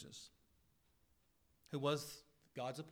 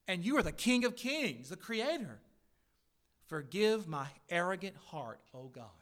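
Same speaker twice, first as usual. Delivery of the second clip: raised, impassioned prayer that drops at the close; earnest repentant prayer; 2 semitones higher, 5 dB louder than usual. Acted. Preacher modelling a prayer of confession to Jesus, earnest and pleading. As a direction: pray it out with rising intensity, then soften on the last words.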